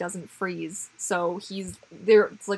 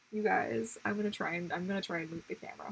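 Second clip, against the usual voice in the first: hushed voice; 8 dB quieter than usual. Real, not acted. Baby asleep, trying not to wake.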